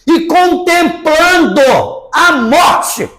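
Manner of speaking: mock melodrama. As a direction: paint it as overblown gloom, drawing out the climax. Ironiza o luto trancado no quarto. (ironia dramática crescente)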